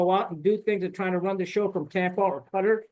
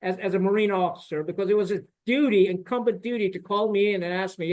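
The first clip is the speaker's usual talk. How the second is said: ordinary delivery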